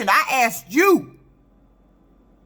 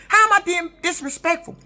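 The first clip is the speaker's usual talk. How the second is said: indignant question; 6 semitones higher than usual. Real, not acted. Indignant about being called rude.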